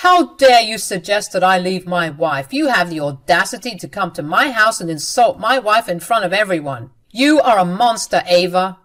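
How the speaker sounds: a mild acted yell, building to "monster"; angry yell. Husband yells at his sister for insulting his wife. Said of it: "Aiden started to yell at Ava and said".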